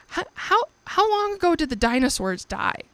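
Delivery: high, urgent and rushed; frantic question. Retold or imitated. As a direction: blurt it out in a late-night panic. Panicked late-night question to Anthony.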